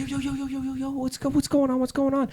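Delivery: high, urgent call to break up a fight. Retold or imitated. Narrator calling out high to two people brawling by the road. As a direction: pitch way up, yo yo yo to stop them.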